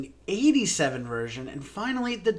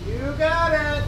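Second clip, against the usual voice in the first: high, playful call; singsong call back; 11 semitones higher, 3 dB louder, slower than usual. Acted. Friend leaving to fetch a rum and coke, singsong call back.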